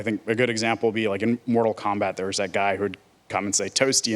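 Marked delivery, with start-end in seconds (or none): 3.7-4.1 lightly imitated falsetto game catchphrase. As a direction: pop it out a bit higher, mimicking a falsetto. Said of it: "in the falsetto voice".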